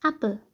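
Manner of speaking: short open A starting "एप्पल". Shown as a demonstration. Teacher showing how A is pronounced, short A. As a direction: open the mouth for a brief A in "एप्पल". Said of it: "ए जैसे pronounce कर रहे थे".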